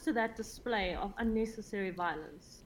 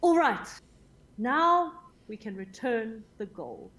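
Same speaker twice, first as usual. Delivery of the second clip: big bright opening shout, then slower; loud, cheerful, enthusiastic; 4 dB louder, slower than usual. Acted. Player rallies the party to return gold, loud and cheerful. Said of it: "very loudly and very cheerfully and enthusiastically say".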